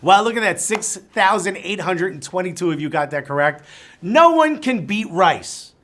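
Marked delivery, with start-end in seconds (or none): 4.0-5.7 slow, emphatic shout of "No one can beat Rice"; yelled slogan. Real, not acted. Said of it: "the reason I yell that".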